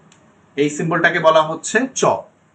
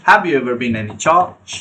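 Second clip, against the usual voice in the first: slow example sentence; much slower than usual. Shown as a demonstration. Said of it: "teacher example sentence".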